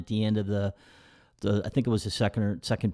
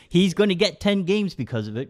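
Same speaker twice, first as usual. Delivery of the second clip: imitating dad; 7 semitones higher than usual. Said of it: "He goes".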